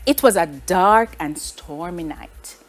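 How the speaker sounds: slow, low storyteller's mystery; mysterious. Shown as a demonstration. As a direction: read it slowly, setting up a mystery. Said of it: "this tone actually reflects somewhat of a mystery".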